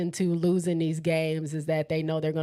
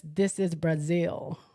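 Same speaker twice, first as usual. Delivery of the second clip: slow, lightly voiced movie tough-guy line; a half-hearted, drawn-out film impression; Dominic Toretto; 2 semitones lower, slower than usual. Host quoting a movie for live viewers, slow light impression. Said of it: "in my Dominic Toretto voice".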